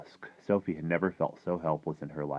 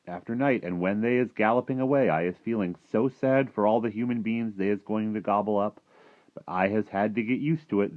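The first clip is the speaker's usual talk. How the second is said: slightly raised, lively giant storyteller; a hint of a gentle giant explaining himself; lightly voiced friendly giant, regretful; 5 semitones higher, 5 dB louder than usual. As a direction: lightly play the rueful giant.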